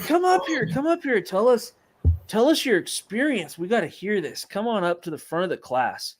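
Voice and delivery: high, loud eager calling; teacher shouting eagerly to the student; excited teacher. Retold or imitated. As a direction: wave him up to the front, thrilled. Teacher eagerly calls student forward.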